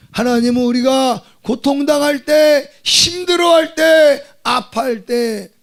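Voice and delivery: loud, high, slow cry of preaching; tearful full-force Korean sermon cry. Acted. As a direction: wail it out to the congregation.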